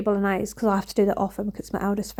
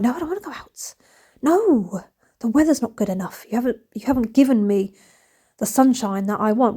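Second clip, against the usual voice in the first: voicing the cat. The cats at the door, lightly voiced and fussy. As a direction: play a picky pet refusing to go out.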